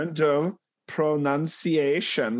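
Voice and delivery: mock German accent. Puts on German accent, checking pronunciation.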